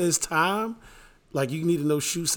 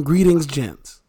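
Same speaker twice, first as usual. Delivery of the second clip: slow mock greeting; 2 semitones lower, 9 dB louder, much slower than usual. Shown as a demonstration. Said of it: "Start from".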